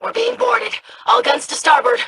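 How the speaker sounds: urgent shout across the deck; shouted order. Acted. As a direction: bark the order over the battle. Ship being boarded, orders.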